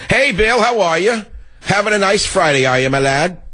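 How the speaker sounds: high singsong hail; mock-friendly greeting. Host hails rival Bill as "my lad", mock-chummy high greeting.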